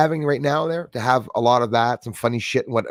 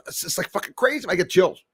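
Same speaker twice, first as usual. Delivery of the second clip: ordinary talk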